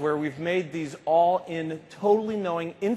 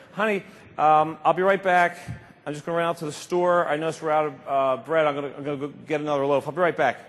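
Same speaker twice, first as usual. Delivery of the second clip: louder breezy call to the other room; casual call out; 5 dB louder than usual. Pretend. Husband calling to his wife about bread, loud and breezy. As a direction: toss it off lightly while heading out.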